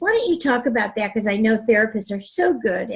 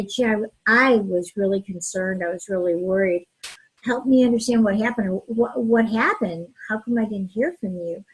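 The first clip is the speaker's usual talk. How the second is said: gentle concern; 3 semitones lower than usual. Shown as a demonstration. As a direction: ask it kindly, without blame. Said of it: "so it's always best to say".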